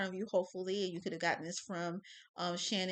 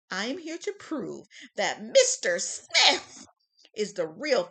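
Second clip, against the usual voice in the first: prosecutor voice; 7 dB louder than usual. Acted. Prosecutor's opening statement.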